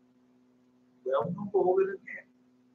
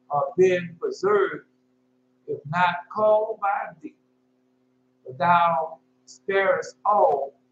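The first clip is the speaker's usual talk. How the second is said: scripture recital; slower than usual. Acted. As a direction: draw out each phrase of the verse reverently.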